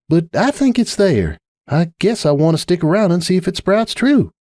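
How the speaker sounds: a tired sigh of a friend, lightly voiced; Applejack. Applejack pleading with Rainbow, lightly voiced patient mare.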